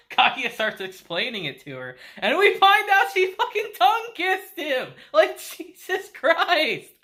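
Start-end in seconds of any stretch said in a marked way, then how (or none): 2.2-6.9 higher, louder exclaim; shocked excitement. Real, not acted. Vlogger reacting to the kiss reveal, shocked loud exclaiming. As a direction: blurt it out, scandalised and thrilled.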